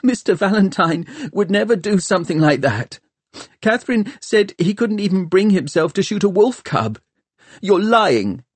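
high, tearful protest; wobbly from weeping. A narrator's reading. Tom defends Valentine to Hester, wobbly from weeping. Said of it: "Tom's voice was all wobbly".

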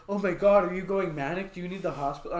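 high, loud alarmed shriek; panicked girlfriend. Retold or imitated. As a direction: squeal it out in a panic. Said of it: "She's like".

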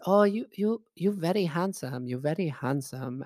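mock Chinese accent, falling away at the end; imitating Chinese-accented old lady. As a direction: flatter him in a put-on Chinese accent. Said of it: "she goes".

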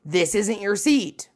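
lightly voiced dismissive flight attendant, rising on "lose"; mock flight attendant. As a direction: break it to the passenger with mock smugness. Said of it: "the flight attendant's like".

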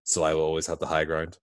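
a hint of a commanding Sith lord; Darth Vader voice. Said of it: "he went back and said".

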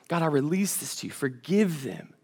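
quiet, surrendering plea; soft prayer. Pretend. Believer releasing a grudge to God, softly. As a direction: hand it over gently, almost inaudible.

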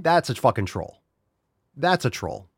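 ordinary talk

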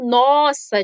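nossa as in wow; impressed surprise. Shown as a demonstration. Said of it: "de quando você tá impressionado".

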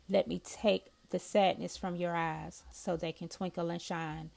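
measured, heartfelt poetry recital; poem reading. Acted. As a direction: read each line of the love poem with feeling. Reads her second love poem.

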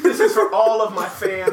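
mock speech through laughter; laughing mock speech. Mock dedication repeated.

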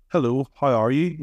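lightly put-on polite voice for foreigners; a touch neater, carefully greeting a stranger; nicer airport voice. Shown as a demonstration. Speaking to someone from another country, nicer voice. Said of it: "like, a nicer voice".

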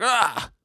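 high, soft cry of pain; mock pained yelp. Denji gets fingers up his nose, mock pained cry.

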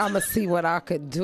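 laughing through the dad's line; mock the dodge while laughing; mock dad excuse laughing. Mocking a baby father's excuse, laughing. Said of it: "that's the worst words in the world".

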